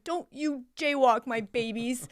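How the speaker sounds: put-on high, loud call across the street to the kids; yelling at students. Teacher yelling to her students not to jaywalk, loud and high. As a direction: shout a warning like a protective mama. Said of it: "I yelled at them".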